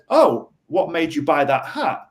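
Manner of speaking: friendly, interested what-question; a light, easygoing inquiry about the hat; curious question. Shown as a demonstration. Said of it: "if I said".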